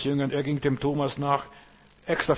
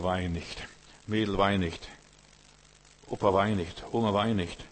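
tender comforting; 3 semitones lower than usual. Retold or imitated. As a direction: soothe a crying child. The Saviour comforts the weeping.

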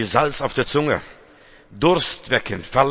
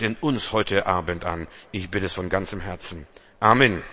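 prayer. Acted. Prays over the sermon.

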